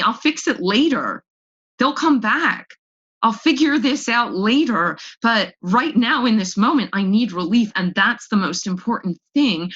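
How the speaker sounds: voice of her brain. Retold or imitated. Her alcoholic brain bargaining for relief, slow and insistent. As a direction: let the addict brain talk itself into a drink. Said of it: "I have this brain that will tell me".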